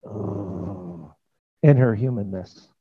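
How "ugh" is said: retold groan. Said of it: "And she was going".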